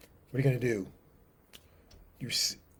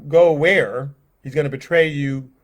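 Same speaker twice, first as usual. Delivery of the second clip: louder, urgent confusion; alarmed question; 6 dB louder than usual. Acted. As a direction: blurt it out, alarmed.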